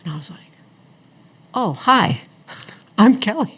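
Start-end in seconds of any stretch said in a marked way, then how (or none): 1.5-3.5 high, loud giggly hello; laughing greeting. Retold or imitated. Meeting a woman in the restroom, laughing hello. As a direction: laugh through the introduction.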